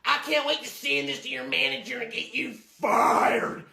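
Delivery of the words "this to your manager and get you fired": crying angry shout. Acted. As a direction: scream through angry tears. Customer screams and sobs.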